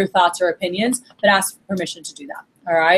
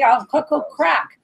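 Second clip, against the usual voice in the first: higher, drawn-out excited yell; mock salesman hype; imitated hyped salesman; 5 semitones higher, slower than usual. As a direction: stretch it out like a fired-up demo guy.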